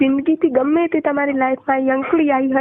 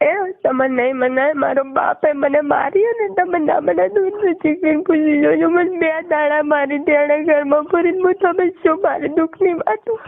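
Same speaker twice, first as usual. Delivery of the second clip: real distressed, tearful outpouring; tearful pleading; 2 semitones higher than usual. Real, not acted. Woman telling partner her father beat her, tearful. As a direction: pour out the hurt through tears.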